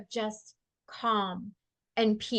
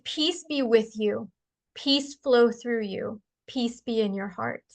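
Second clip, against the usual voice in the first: soothing; slower than usual. Retold or imitated. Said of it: "what came out of my mouth is".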